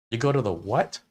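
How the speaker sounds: puzzled outsider. Acted. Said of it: "nobody knows what the, what you're talking about".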